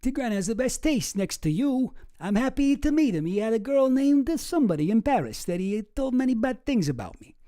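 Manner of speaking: mock Epstein reading. Reads Epstein quote after French remark.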